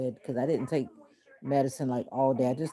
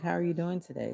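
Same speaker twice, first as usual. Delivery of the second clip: monotone cruise worker; 3 semitones higher than usual. Retold or imitated. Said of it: "all of them had this, like, mono-, monotone sound".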